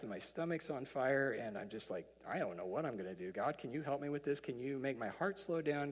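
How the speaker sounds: sample prayer. Shown as a demonstration. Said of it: "A very simple prayer".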